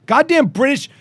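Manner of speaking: angry outburst. Real, not acted. Host cursing a broken website, exasperated and loud. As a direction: blow up at the glitching website.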